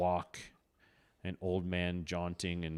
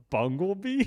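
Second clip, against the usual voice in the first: puzzled question; 11 semitones higher, 6 dB louder than usual. Acted. Mocking misspelled book name.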